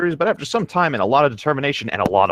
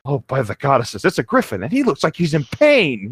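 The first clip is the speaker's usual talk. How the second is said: startled guard cry; 3 semitones higher than usual. Acted. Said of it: "he cried".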